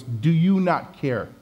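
drawn-out, mildly reproachful question; lightly acted passive-aggressive complaint, slowly. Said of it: "It's really passive-aggressive".

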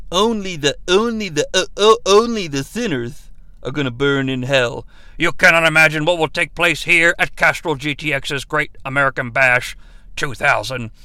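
low, menacing promo voice, lightly done; Vampiro quote. Retold or imitated. Reviewer quoting Vampiro's hype, low and lightly menacing. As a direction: growl it like a goth wrestler. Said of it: "we hear Vampiro say".

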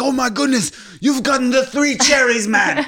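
very high, loud hype-man cheer; hammed-up squeal of fake amazement; mock excitement. Men hyping up a scratch ticket winner, mock excited. Scammers acting thrilled over a win.

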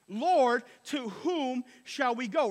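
2 declaring. Retold or imitated. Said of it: "here's what Peter said".

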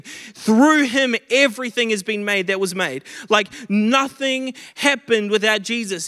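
fired-up preacher; preaching at full force. Acted. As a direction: build the room up, pressing every line.

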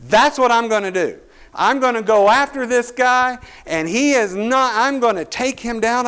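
building from quick to high and loud; fired-up self-talk. Retold or imitated. Young player psyching himself up before the tackle. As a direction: pump yourself up for the hit. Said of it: "And I'm like".

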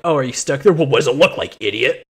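mock bickering, teasing jab; chirping each other. Prince and Annika roasting each other, mock snippy. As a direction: toss out a quick sarcastic roast. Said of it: "chirping each other the whole time".

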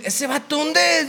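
a light voicing of the Bogotá director; retold director question. He retells the director asking, lightly voiced. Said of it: "y dice".

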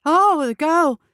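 light up as it dawns on you; sudden realization. A narrator's reading. Jailer suddenly remembers the girl, bright and surprised. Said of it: "his face brightened".

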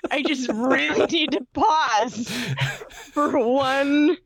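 laughing. Real, not acted. Cracking up at friend's word.

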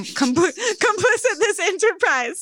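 stoned reading, stumbling over words. Real, not acted. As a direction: read it high, tripping on words. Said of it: "Sorry, I'm high".

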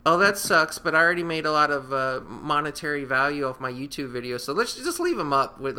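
mock excuse-making YouTuber. Voices uncaring YouTubers making excuses.

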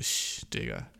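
unvoiced sh, low and hushed; hushing whisper. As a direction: hush him like a caught kid. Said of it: "Und dann sagst du".

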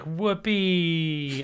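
put-on cute clown girl. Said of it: "She's like".

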